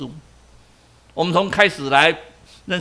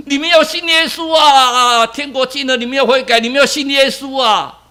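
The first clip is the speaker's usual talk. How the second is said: calling out; 5 semitones higher than usual. Acted. Man calling out on subway.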